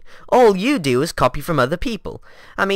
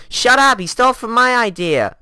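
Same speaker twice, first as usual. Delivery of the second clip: annoyed shout; 5 semitones higher, 4 dB louder than usual. Acted. Argument flare-up.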